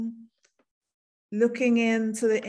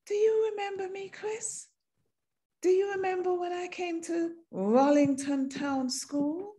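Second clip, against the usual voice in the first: high, quick teasing questions; playful reminder; 3 semitones higher than usual. Retold or imitated. Woman teasing old schoolmate about sitting close, playful. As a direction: tease him about the school bench.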